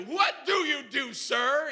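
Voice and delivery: high acted yell; retold yelling. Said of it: "He's, like, yelling at me".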